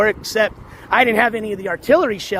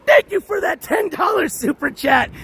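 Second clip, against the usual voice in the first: donation yell; 11 semitones higher than usual. Real, not acted. Streamer yelling thanks for a ten dollar super chat. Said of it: "I have to reserve my yelling".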